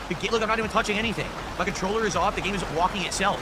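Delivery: alarmed disbelief. Real, not acted. Game walking by itself.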